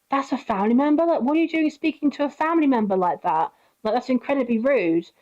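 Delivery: indignant disbelief. Retold or imitated. Friend telling off the rude cousin, indignant.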